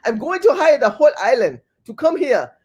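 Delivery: a rough attempt at a Jamaican accent; mock Jamaican accent. Host playing a Jamaican supervisor who hires islanders, mock Jamaican accent. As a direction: put on an unsure, imitation Jamaican accent. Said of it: "I think I'm doing the wrong accent".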